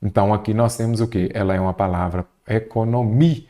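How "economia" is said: "economia" with the weight on the syllable MI; stress on MI. Shown as a demonstration. Teacher showing students the strong syllable, stress on MI. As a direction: lean on the MI in "economia". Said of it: "A sílaba forte é o mi".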